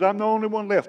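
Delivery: high, put-on whining voice; mock self-pitying moan; whiny self-pity. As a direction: whine it like a sulking prophet. Whiny Elijah voice again.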